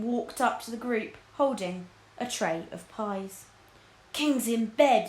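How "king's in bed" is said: thickly. Acted. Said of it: "he said thickly to Spittleworth".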